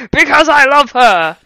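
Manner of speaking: slow, loud, high hammed-up confession; love declaration. Hagrid confessing his love, loud and slow. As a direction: cry it out in melodrama.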